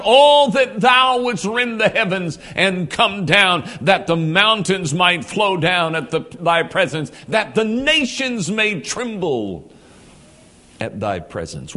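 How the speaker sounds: loud, pleading shout to heaven; crying out. Retold or imitated. Isaiah crying out for God to come down, loud shout. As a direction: cry it out to God with urgency. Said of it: "as Isaiah cries out".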